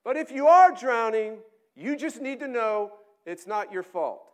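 loud, high, confident pronouncement; know-it-all academic voice; lecturing theory. Acted. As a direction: announce it like a fad. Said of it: "the theory says".

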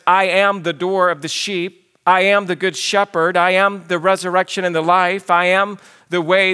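each "I am" leaned on firmly; emphasis on I AM. Retold or imitated. Preacher listing Jesus' statements, emphasis on each "I am". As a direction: drive home every repeated "I am". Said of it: "stated with great emphasis".

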